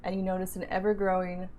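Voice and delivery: game master narration. Acted. DM narrates opening scene.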